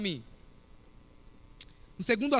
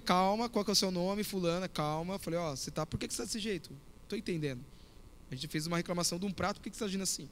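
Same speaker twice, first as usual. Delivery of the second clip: quiet, soothing calm reply; 6 dB quieter than usual. Retold or imitated. Pastor calmly soothing the shouting owner, quiet and even. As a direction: talk her down softly and evenly. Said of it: "Aí eu calmo".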